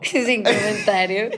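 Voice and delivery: slow, laugh-laced refusal to answer. Real, not acted. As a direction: repeat it slowly through a laugh. Guest repeats the dodge, now laughing. (entre risas, alargando las palabras)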